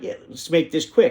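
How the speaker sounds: normal talking voice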